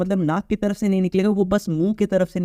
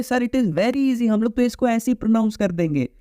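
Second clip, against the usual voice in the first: easygoing student; 5 semitones higher than usual. Retold or imitated. Teacher voicing a student finding the word easy, mild breezy. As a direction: play a student shrugging it off as easy. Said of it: "तो आप बोलोगे".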